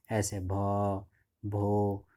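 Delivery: mock stammering on the first syllable; stammering start; stammer demo. Shown as a demonstration. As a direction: imitate a stammer, stuck on bho. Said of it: "ऐसा करके तीन चार बार में".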